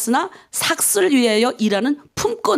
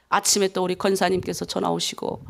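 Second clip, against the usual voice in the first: ordinary talk, nothing marked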